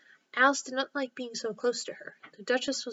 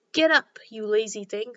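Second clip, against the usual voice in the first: loud impatient command; loud scolding; 8 dB louder than usual. Acted. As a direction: bark at a lazy creature. Queen scolds sleeping griffin.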